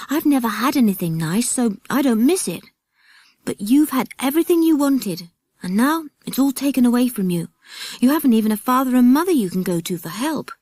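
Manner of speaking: lightly voiced boy full of pity; boy Jack. Jack tells the others they are worse off, boyish.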